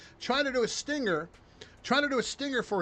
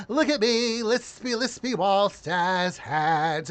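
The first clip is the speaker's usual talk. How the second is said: lispy, slow mock of a politician with jazz hands; hammed-up lisping politician, drawn out; mock Walsh; much slower than usual. Mocking Walsh for the viewers, drawn-out lisp. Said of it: "Tim Walsh coming out in jazz hands".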